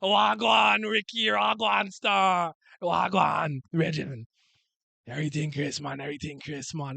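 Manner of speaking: imitating dad in a Jamaican patois accent; dad's easy Jamaican patois greeting on the phone. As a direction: loose Jamaican patois impression, lightly done. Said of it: "my dad will just go on the phone".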